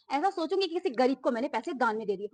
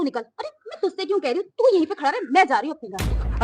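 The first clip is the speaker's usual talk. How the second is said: louder parting snap; angry shout; 4 dB louder than usual. Acted. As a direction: storm off with a final yell. Customer storms off angrily.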